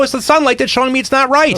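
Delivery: high-pitched retold comeback; indignant retort. Arguing with the body shop guy over paint, indignant. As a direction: argue back, pitched well up.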